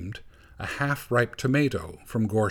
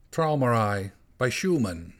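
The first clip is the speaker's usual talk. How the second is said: perfectly serious. Acted. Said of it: "in a perfectly serious voice".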